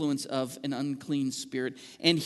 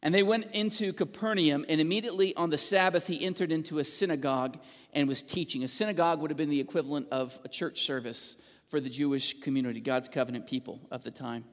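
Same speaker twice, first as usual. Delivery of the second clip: raised, measured reading of scripture. Acted. Pastor reading Mark to the church, raised and measured. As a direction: read the passage out to the congregation.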